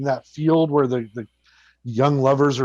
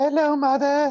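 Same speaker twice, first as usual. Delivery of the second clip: put-on creepy, very high man-child voice; 13 semitones higher than usual. Imitating a movie character's voice: adult man doing a kid's voice. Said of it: "he has a voice like this".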